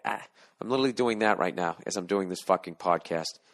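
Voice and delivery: talking while lying down; drowsy lying-down voice; squinting, lying down. Real, not acted. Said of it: "my eyes are squinting".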